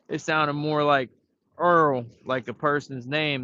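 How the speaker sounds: oil said like the name "Earl". Shown as a demonstration. Telling how grandma said "Earl" for oil. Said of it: "The way she said oil was funny".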